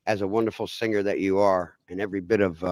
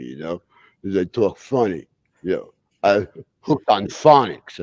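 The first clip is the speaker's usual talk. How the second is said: Stallone impression. S2 impersonates Sylvester Stallone.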